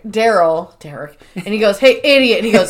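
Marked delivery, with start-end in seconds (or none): 1.8-2.4 mild retold yell, a bit louder; mock yell. Boss yelling down at a worker, mock yell. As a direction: call out rudely, half-yelled. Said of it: "goes down to yell at Derek".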